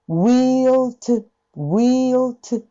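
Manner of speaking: will to with a clipped to; toを短く; short to. Shown as a demonstration. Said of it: "ここのtoは短いです".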